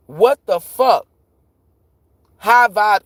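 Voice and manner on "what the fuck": raised, louder mock disbelief; imitated astonishment. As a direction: play the dog owner's stunned outcry. Dog owner's astonished reaction, retold.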